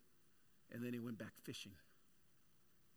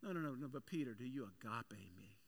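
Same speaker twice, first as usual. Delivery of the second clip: tender question; 2 semitones lower, 3 dB quieter than usual. Retold or imitated. Jesus presses Peter tenderly.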